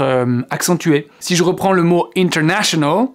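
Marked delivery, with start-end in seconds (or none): 2.2-3.1 international with the weight on NA; inter-NA-tional; stress on NA. Shown as a demonstration. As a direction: lean on the NA of international. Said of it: "c'est là qu'il va falloir que je fasse mon effort".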